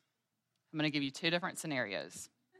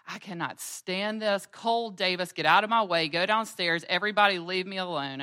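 higher, much louder exasperated outburst; fed-up mom; 4 semitones higher, 8 dB louder than usual. Retold or imitated. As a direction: send everyone away at the end of your rope. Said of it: "I'm just like".

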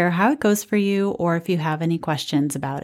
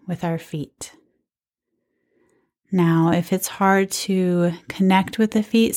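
guided meditation. Real, not acted. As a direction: guide them gently through each sensation, leaving space. Leads a standing body scan.

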